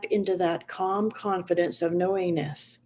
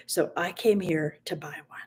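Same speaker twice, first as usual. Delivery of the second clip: whispered plea; 3 semitones lower, 5 dB quieter than usual. Acted. Child's plea fades to whisper.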